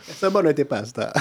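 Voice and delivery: distant voice off-mic; speaking away from the microphone; far from mic. Real, not acted. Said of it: "tu parles loin du micro". (voix loin du micro)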